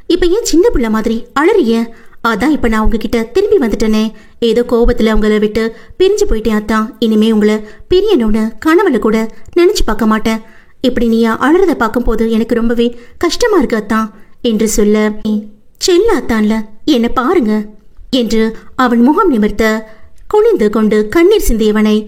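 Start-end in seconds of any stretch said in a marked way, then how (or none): 0.1-14.0 lightly voiced young wife soothing her husband; tender heroine voice. Heroine's voice, narrator reading. 15.8-17.5 lightly voiced young wife soothing her husband; tender heroine voice. Heroine coaxing.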